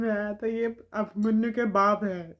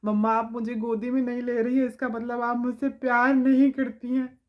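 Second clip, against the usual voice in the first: put-on sulky child; 2 semitones higher, 4 dB louder than usual. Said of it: "वो गुस्सा होके".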